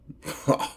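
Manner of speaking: scornful laugh. Acted. Demon scoffs at protection circle.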